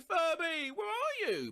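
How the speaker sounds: put-on high child yelling a name; calling out. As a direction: call out across the house like a kid. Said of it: "so I screamed".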